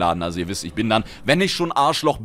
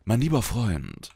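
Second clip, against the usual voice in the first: slow, softer, threatening mein lieber Freund; menacing; 4 dB quieter, slower than usual. Retold or imitated. To the friend who hit on your girlfriend, quietly threatening. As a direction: warn him quietly with a glare in the voice. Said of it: "Dann guckst du nur anders an".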